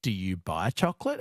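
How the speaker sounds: "Dubai" split into "do you buy". Retold or imitated. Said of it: "it sounded like".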